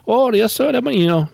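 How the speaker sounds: high, badly faked Asian accent; imitated Asian accent. Agent answering on speakerphone, imitated Asian accent. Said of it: "his accent was so thick".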